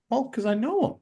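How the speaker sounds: lightly acted high-pitched reply; high-voiced retort. Cameraman explaining himself to bosses, high-voiced retort. His retold answer to baffled bosses.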